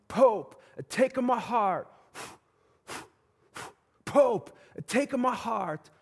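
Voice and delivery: put-on slow, high, pleading Italian-accented call. Crowd below the balcony pleading with the Pope, in a mock Italian accent. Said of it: "that's the best Italian accent I've got".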